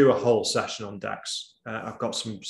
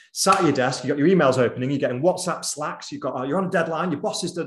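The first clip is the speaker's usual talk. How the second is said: rapid, louder list piling up like a busy day; sped-up tempo; 3 semitones higher, 4 dB louder, faster than usual. Shown as a demonstration. Speaker showing audience how busyness crowds out thought, sped-up tempo. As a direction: rattle off mounting demands, rushed and higher. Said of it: "I just got the tempo".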